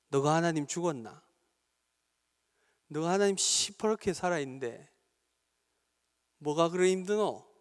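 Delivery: blunt Gyeongsang dialect, lightly voiced. The Holy Spirit challenging the weary pastor, in light Gyeongsang dialect. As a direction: give it a plain-spoken Gyeongsang rebuke. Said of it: "이렇게 말씀하십니다".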